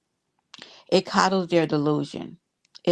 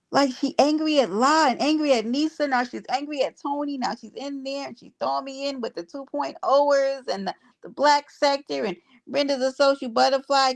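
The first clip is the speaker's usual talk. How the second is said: high-pitched disbelieving run-on; high incredulous rant; 6 semitones higher than usual. Real, not acted. Ranting to viewers about her accuser.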